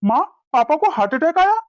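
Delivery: alarmed, pitch climbing on the questions; shocked worry. Acted. Son on phone learns of father's heart attack, shocked and worried. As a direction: react to frightening news about your father.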